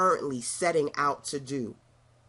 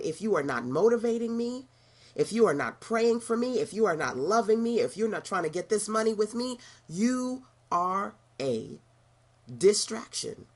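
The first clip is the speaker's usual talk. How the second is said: louder, higher repeat; 4 semitones higher than usual. Shown as a demonstration. Coach repeating the list louder so they hear it. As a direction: raise it for emphasis. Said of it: "Did you hear me?".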